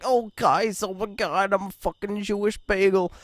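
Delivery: high, exaggerated stereotypical Jewish accent. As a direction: ham up a cartoonish Jewish accent, pitched high. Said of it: "fucking Jewish voice".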